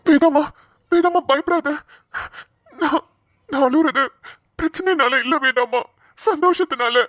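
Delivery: tearful reassurance, halting between phrases; moved husband, voice lifting through tears; happy crying. Acted. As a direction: comfort your wife while choked with happy tears. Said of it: "ஏங்க அழுவுறீங்க".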